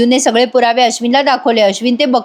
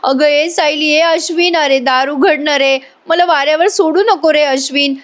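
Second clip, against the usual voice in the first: mock wail to be let back in; acted desperate pleading; 4 semitones higher than usual. Priya begging at the locked door, pleading. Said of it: "मोठ्याने दरवाजा वाजवायला लागते".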